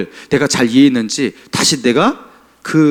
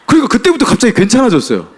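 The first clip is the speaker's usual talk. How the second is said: laughing; 8 semitones higher than usual. Real, not acted. Laughs at the story's punchline.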